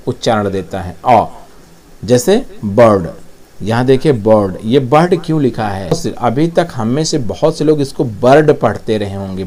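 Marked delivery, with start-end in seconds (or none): 1.0-1.2 अ held as a long vowel. Shown as a demonstration. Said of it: "ये थोड़ा सा long". 8.0-8.5 बर्ड with the R sounded; mispronounced bird. Shown as a demonstration. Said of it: "बर्ड, ये गलत है".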